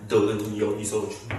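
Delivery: low, slow husky rabbit ghost; a low slow menacing rabbit spirit. Acted. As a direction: growl the threat slowly and low. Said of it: "탁한 음성으로 다시 말합니다".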